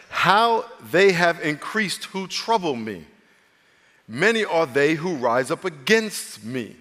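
slow, measured psalm reading; solemn scripture reading. Acted. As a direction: read the psalm out slowly, letting phrases breathe. Reads the psalm aloud.

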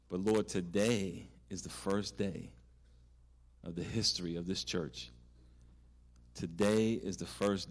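slow, earnest pastor's prayer; closing prayer. Acted. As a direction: pray aloud for the room, steady and earnest.

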